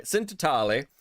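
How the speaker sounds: hammed-up Italian accent on the name. Shown as a demonstration. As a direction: say it like a mock Italian. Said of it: "say it in a really Italian accent".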